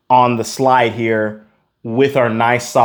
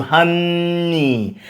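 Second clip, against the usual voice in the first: tender honey; 5 semitones higher than usual. Shown as a demonstration. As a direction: croon "honey" as to a loved one. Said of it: "honey, like I love you".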